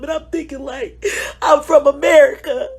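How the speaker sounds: crying. Real, not acted.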